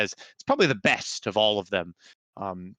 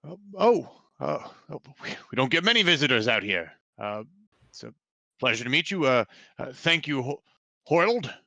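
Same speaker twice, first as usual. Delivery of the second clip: Deji man voice; 4 semitones higher than usual. Acted. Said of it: "a Deji man comes out".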